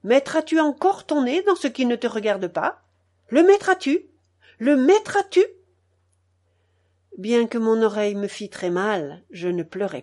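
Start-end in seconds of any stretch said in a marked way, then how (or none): 0.0-5.4 high, loud, sharp repeated demand; angry father. A narrator's reading. Father twisting his son's ear, shouting the question. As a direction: hammer the question home, louder and higher.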